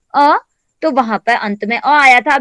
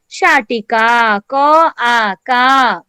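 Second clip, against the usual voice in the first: spelling out slowly; much slower than usual. Shown as a demonstration. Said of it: "तो ये क्या हो गया?".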